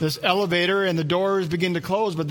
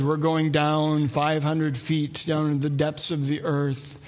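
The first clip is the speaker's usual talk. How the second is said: slow, drawn-out ride announcer; loudspeaker announcer; slower than usual. Retold or imitated. Ride loudspeaker booming to a lone boy, slow announcer voice. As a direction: stretch each word like a spooky PA voice. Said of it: "a voice that comes over the loudspeaker".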